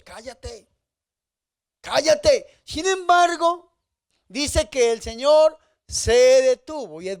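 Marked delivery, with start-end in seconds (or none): 0.0-0.7 a much softer, hushed mock shush. Crowd quietly hushes the blind man. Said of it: "Eso es lo que nos dice". 1.8-2.6 a louder, higher mock command to shut up; shouted shush. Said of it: "Eso es lo que nos dice".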